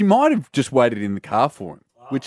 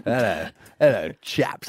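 a hint of King Charles greeting a room; lightly hammed-up royal hello; King Charles impression. Host lightly imitating King Charles greeting guests. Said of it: "And he said".

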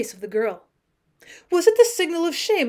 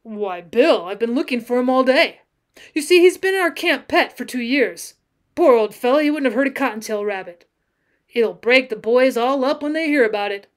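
louder, lightly voiced cowboy explaining his loss; earnest mournful cowboy; 6 dB louder than usual. Cowboy spins tale of camp pet, earnestly mournful. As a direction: plead the dead pet's case, mildly mournful.

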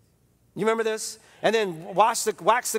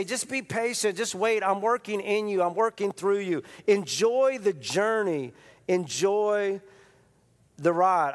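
patient God; slower than usual. Retold or imitated. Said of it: "wants to knock us upside the head and say".

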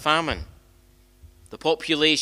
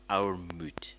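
unvoiced whisper, much softer; hushed aside; 7 semitones lower, 9 dB quieter than usual. Real, not acted. Aside dropped to hush.

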